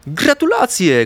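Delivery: high-pitched, delighted cheer; congratulatory cry. A narrator's reading. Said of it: "krzyknęła Florka". (wysoki okrzyk z gratulacjami)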